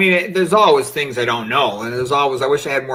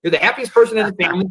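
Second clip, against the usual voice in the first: a lightly voiced teasing son, pitched higher and climbing toward the end; imitating his kid; 5 semitones higher than usual. Son teasing dad about his dull life, lightly mimicked. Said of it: "Like my kid said to me".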